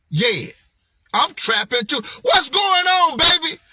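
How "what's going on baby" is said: hyped greeting to product. Shown as a demonstration. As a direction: greet the book like a long-lost baby. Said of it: "this is how I talk to my product".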